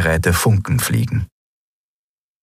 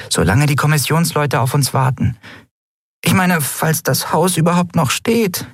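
much higher, fretful little voice; anxious tiny creature; 9 semitones higher than usual. A narrator's reading. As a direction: worry aloud in a small high voice. Nelen voiced high.

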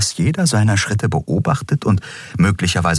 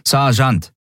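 guard correcting; 8 semitones higher than usual. A narrator's reading. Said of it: "verbesserte die Frau".

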